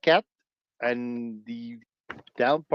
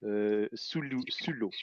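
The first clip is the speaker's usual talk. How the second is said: French; 3 dB quieter than usual. Shown as a demonstration. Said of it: "Explorons les profondeurs".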